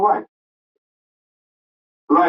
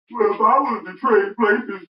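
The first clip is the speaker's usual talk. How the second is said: mocking Kwame Brown; 2 semitones higher than usual. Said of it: "now imagine Kwame Brown saying that".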